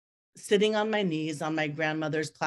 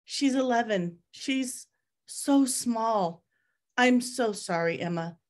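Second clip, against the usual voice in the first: tearful; 6 semitones higher, slower than usual. Retold or imitated. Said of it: "Daniel was lost again in his tears".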